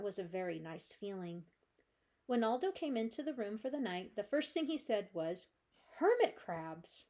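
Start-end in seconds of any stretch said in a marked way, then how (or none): 6.0-7.0 slow, booming delighted shout; excited exclamation. Acted. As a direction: bellow it with glee. Aldo exclaims, then laughs hard.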